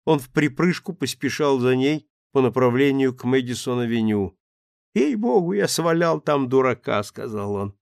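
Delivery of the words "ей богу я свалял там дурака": put-on rueful, higher drunken voice; a sobering drunk owning up; sheepish drunk.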